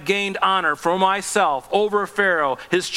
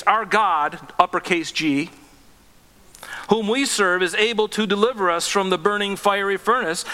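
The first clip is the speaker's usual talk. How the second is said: raised, bold defiant declaration; bold defiance; 4 semitones higher than usual. Acted. Three young men defying the king, bold and raised. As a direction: stand firm and defy the king. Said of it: "I love the boldness".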